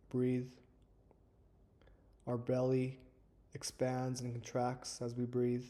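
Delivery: calm, measured meditation guide with long pauses; guided meditation. Acted. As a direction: ease listeners into stillness, leaving space between phrases. Leads a guided breathing meditation.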